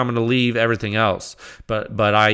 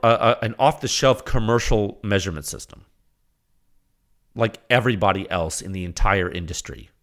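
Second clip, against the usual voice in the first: ordinary delivery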